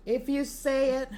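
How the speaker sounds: aggressive. Shown as a demonstration. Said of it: "it comes out like an aggressive".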